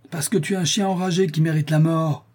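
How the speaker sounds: high-pitched angry outburst; furious cry. A narrator's reading. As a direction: cry out the insult in rage. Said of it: "s'écria le Maltais". (cri de rage, voix haute)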